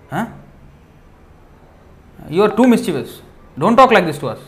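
animated mock scolding in bursts; angry gopis. Gopis answer Krishna's order to go home, acted indignant scolding. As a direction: argue back with acted indignation. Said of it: "Then gopis became very angry".

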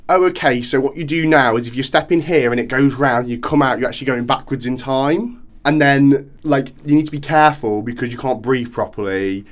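lightly acted, eager explainer voice; voiced explainer. Mimicking someone explaining Tenet's rules to the hero, lightly voiced explainer. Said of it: "learning through somebody going".

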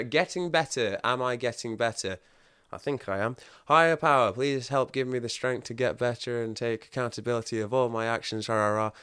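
reading the whiteboard in a lightly earnest chant; a touch of sing-song recital; mock reading affirmations. Reciting the whiteboard affirmations to the group, mildly chanted. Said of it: "read what's on the whiteboard".

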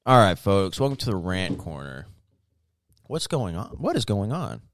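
a mild take on a TV pundit greeting his audience; Tucker Carlson impression. Friend hosting a mock rant corner, light Tucker-style pundit voice. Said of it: "That's my best Tucker Carlson".

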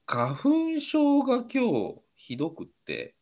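blocked nose from hay fever; stuffy nose; nasal voice. Real, not acted. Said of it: "鼻詰まりで変な声になっちゃってたら".

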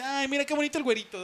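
lightly mimicked gushing teacher, quick; fond teacher gushing. Teacher cooing over the blond boy, a light mock gush. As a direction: coo over the blond boy, half mocking. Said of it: "la gente grandecita dice".

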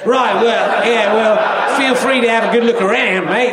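half-hearted Australian shop man; "Right, well" with a mild Australian twang; weak Australian accent. Retold or imitated. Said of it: "I can't really do the accent".

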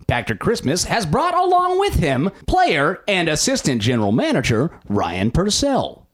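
newscaster voice. Shown as a demonstration. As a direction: announce it like the evening news. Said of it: "I'm gonna try it in my worst, best newscaster voice really fast".

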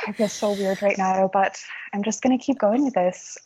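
put-on a faint, self-conscious Irish accent close to her own voice; light Irish accent. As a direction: keep a mild Irish lilt going through the embarrassment. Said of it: "answer this in your Irish accent".

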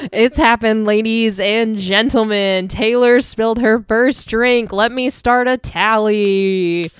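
slow, drawn-out ringmaster announcement; mock announcer. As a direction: proclaim the mishap like a grand show host. Mock announcement of a spilled drink.

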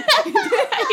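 loud high cackle; real laughter; high shrieking laugh. Real, not acted. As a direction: burst out laughing. Laughing at own story.

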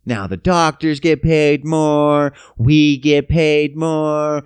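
slow, drawn-out smug gloating; slow mock official gloating. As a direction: gloat slowly like a greedy official. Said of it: "And they're like".

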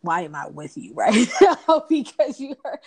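mock sulk with laughter. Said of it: "I would be like".

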